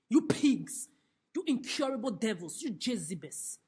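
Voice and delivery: loud, furious insult; angry insult. Real, not acted. Ranting insults at "human race.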